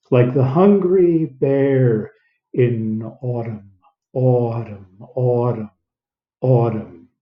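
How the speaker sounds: "autumn" repeated, falling; drilling the phrase. Shown as a demonstration. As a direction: say hungry bear then drill autumn. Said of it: "Sometimes you wanna put a few words together".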